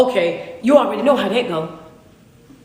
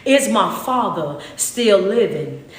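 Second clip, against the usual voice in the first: slow, proud declaration by Joseph; lightly voiced proud Joseph revealing himself; head up, chest out; 3 semitones lower, slower than usual. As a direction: stand tall and announce yourself slowly. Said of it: "with his head up, chest out".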